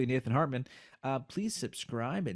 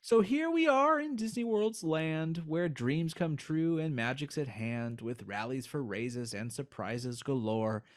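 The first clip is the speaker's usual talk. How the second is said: poem reading. Acted. Reads poem aloud.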